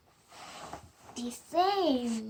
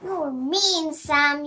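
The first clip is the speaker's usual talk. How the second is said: yelled; 6 dB louder than usual. Acted. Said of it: "yelled Sophie".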